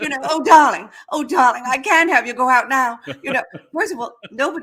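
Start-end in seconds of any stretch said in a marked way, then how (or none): 0.2-3.0 put-on breathless voice, higher and louder. Describing how women talked in MGM films, imitating them: mock-breathless MGM film speech. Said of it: "breathless, very strange little way".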